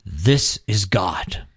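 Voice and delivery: measured, grave pronouncement; priest's solemn declaration. Retold or imitated. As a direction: lay it down slowly like a priest holding up the host. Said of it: "he goes".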